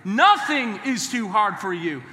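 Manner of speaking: slow, emphatic declaration with NOTHING stretched; like you believe it. Shown as a demonstration. Preacher urging the congregation to repeat, like he believes it. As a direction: declare it slowly with full belief. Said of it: "Say it like you believe it".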